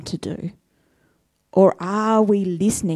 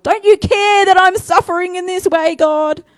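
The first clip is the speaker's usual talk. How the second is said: higher, louder aggrieved plea to God; higher, louder demanding prayer; complaining prayer; 10 semitones higher, 6 dB louder than usual. Retold or imitated. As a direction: pour out the grievance. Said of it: "I think I've probably said that to God".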